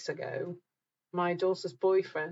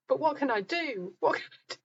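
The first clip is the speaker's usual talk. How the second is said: raised, pleading what can I do; mock helpless husband; 8 semitones higher, 3 dB louder than usual. Host mimicking her husband's helpless repeated question. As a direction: ham up his helpless repeating.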